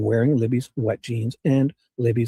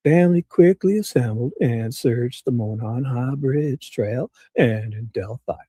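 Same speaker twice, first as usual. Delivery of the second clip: Nick's voice. Retold or imitated. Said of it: "good old boy pretentious enough?".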